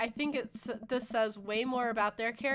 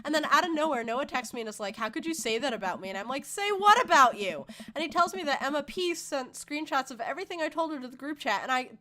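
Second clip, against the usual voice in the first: put-on quick, breathless run of teen drama; ranting teenage daughter; 3 semitones higher, faster than usual. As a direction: rattle off the grievance to dad. Voices Amanda telling her story.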